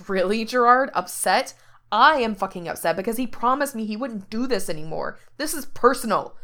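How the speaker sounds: loud, raw, furious protest; angry outburst. Acted. Frank yells at Gerard over Grant, angry and loud. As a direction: Frank lashes out at Gerard in anger.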